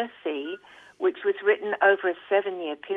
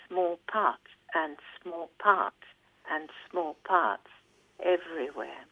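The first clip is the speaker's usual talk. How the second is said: poem reading; 6 dB quieter than usual. Acted. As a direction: let each repetition sink a little softer. Reads poem aloud.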